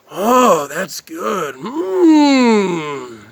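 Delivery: lightly voiced pizza-loving Jersey guy, exaggerated; mock a streamer hyping his pizza run; impression of Spaghetti Noodle Boy. Streamer showing off his pizza to viewers, hammed-up. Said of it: "This is my impression".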